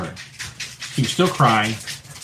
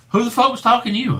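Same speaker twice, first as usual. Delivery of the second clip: higher, fast disbelieving question; incredulous; 10 semitones higher, faster than usual. Retold or imitated. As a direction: fire it off in disbelief. Team asks, incredulous.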